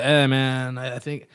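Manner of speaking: imitating a bandmate, voice dropped; Jose. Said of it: "you do a great impression".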